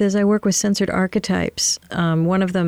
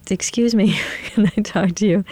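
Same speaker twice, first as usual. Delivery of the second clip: mousy woman; 3 semitones higher than usual. Retold or imitated. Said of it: "she's really mousy".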